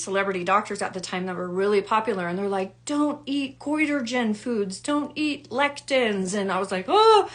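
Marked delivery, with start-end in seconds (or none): 2.8-6.3 slow, higher, preachy mock warning; a hint of a know-it-all doctor; mock doctor advice. Quoting celebrity doctors' advice. 6.9-7.3 high, loud surprised oh; sudden startled oh. Retold or imitated. Reacting to the doctors' advice.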